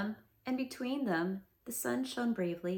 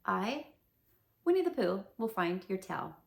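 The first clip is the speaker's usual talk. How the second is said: solemn promise; 2 semitones lower, 3 dB louder than usual. Acted. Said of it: "he said solemnly".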